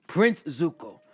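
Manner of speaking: loud, high-pitched scolding; exasperated elder's telling-off; stern chastising. A narrator's reading. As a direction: scold a foolish youngster at full voice. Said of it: "Iroh chastises the boy".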